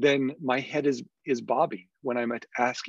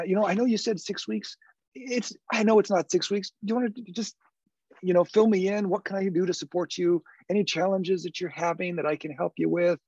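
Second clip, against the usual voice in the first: approachable voice; 8 semitones higher than usual. Shown as a demonstration. Approachable check-in question demo.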